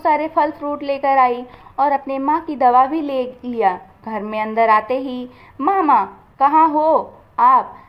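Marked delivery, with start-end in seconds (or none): 5.6-7.7 calling out slowly and loudly, drawn out; hollering through the house for her mother; calling out for mom. Acted. Daughter bursting in home, calling out loudly for mom. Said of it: "क्यों चिल्ला रही हो बेटी?".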